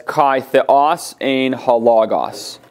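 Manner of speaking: slow, careful Greek "Kai theos ein halagos" with each word spaced out; reading Koine Greek. Shown as a demonstration. Teacher reading John 1:1c in Greek to the class, slow and careful. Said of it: "the book says".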